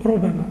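ربما with a single light b, rubamā; ربما said with a short, undoubled b; without the shadda. Shown as a demonstration. Teacher contrasting the Hijazi reading of ربما. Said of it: "أهل الحجاز ومن وافقهم يقولون".

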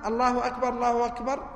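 two distinct takbirs; separate takbirs. Shown as a demonstration. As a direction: space out الله أكبر, الله أكبر as two calls. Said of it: "فقال العلماء".

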